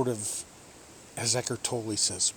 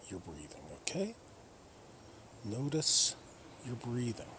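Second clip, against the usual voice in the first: guided meditation. Real, not acted. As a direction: guide them gently, leaving long pauses. Leads a breathing meditation.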